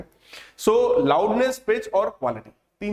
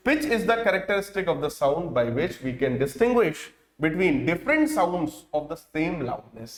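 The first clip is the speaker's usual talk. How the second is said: slow, word-by-word dictation pace; dictating to a class; much slower than usual. Shown as a demonstration. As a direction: read it out slowly so students can write. Dictating notes.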